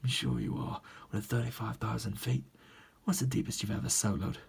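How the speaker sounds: badly faked gruff British film-star voice; Jason Statham. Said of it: "It's like Jason Statham in the movie".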